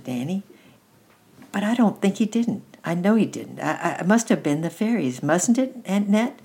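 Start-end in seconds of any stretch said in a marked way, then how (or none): 1.5-6.4 put-on high child's voice, rising appeal; puzzled, insistent little boy. A narrator's reading. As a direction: reason it out, then beg for agreement. Child figure in the story.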